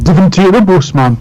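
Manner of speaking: high Geordie quote; Geordie accent. Retold or imitated. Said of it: "they were like".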